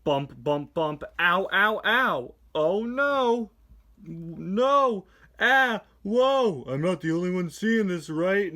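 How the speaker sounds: high, loud cries of pain and alarm; hammed-up crash. McQueen crashing through town, high and loud yelps. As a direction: yelp through each bump like a tumbling car.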